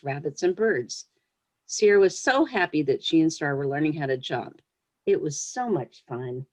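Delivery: gentle read-aloud storytelling voice; story reading. Acted. Author reading her pony story to young listeners, storyteller voice. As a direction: read it like a picture book to children.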